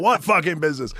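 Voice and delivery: high, loud scoffing question; mocking incredulous bark. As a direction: throw it back at him like everyone did. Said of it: "Everybody's like".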